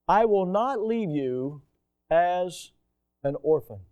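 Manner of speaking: slow, deliberate "I will not leave you"; slow scripture reading. Shown as a demonstration. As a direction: read "I will not leave you as an orphan" slowly, weighing each word. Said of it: "the word comfortless ... means orphan".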